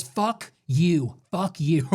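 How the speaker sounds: lightly imitated curt dismissal; put-on retort, voice unlike your own; Trump. Trump answering a heckler at the auto plant, mock dismissive voice. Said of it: "He goes".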